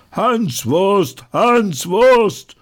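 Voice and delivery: hoch, sehr laut gerufen; brausender Ruf. Acted. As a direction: wie eine ganze Menge brüllen. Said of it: "nun braust es über den Marktplatz". (sehr hoher, lauter Sprechchor)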